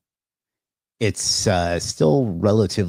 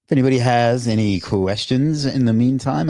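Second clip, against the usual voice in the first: upbeat, louder announcer pitch; game show host voice; 4 semitones higher, 4 dB louder than usual. Real, not acted. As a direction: sell it like a TV quiz host. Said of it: "I'm talking like a game show host today".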